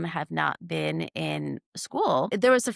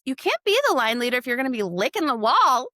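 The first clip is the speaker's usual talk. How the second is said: serious teacher rule; 4 semitones higher, 4 dB louder, faster than usual. Retold or imitated. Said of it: "I was being serious".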